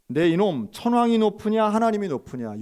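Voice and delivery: scolding interrogator. Retold or imitated. Officer cursing the pastor, loud contemptuous demand. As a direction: bark the question in contempt.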